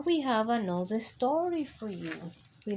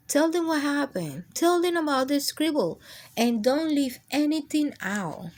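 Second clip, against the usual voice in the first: higher, insistent crayon voice; urging crayon; 5 semitones higher than usual. Acted. Crayon urging the narrator to tell the reader. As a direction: push him to tell everything.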